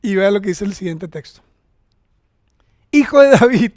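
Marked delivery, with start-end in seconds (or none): 2.9-3.7 loud, higher-pitched acted shout; insistent cry. Preacher voicing the blind man calling to Jesus, insistent shout. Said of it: "Seguía insistiendo el ciego".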